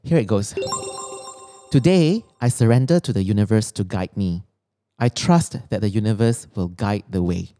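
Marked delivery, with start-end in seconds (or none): 1.7-7.5 affirmation reading. Acted. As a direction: read each line like a mantra. Reads her written affirmations.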